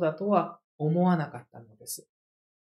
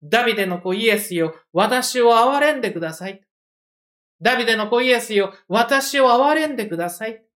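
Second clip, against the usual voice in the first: crying out; 3 semitones higher, 4 dB louder than usual. Retold or imitated. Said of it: "一つの叫びが上がった".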